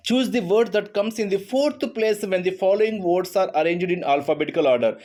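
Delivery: reading the question slowly and clearly. Shown as a demonstration. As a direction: read the exam question aloud, slowly. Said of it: "reads question aloud". (ప్రశ్నను నెమ్మదిగా చదవడం)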